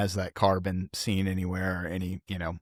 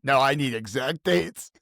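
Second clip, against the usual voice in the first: mock demanding; 4 semitones higher, 4 dB louder than usual. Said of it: "It gets done to me so much".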